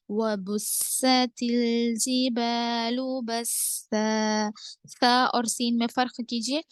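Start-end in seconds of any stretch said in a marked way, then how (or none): 0.1-4.5 slow, drawn-out tajweed chant; Quranic recitation. Shown as a demonstration. Tajweed teacher reciting for students, slow measured chant. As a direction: recite the verse slowly with elongated vowels.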